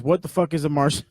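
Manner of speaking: breaking into laughter on the repeat; mock-baffled quote dissolving into a laugh; quoted disbelief. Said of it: "He says".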